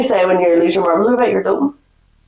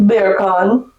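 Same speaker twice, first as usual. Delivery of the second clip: Jamaican-accent bacon. Shown as a demonstration. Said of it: "saying bacon in a Jamaican accent".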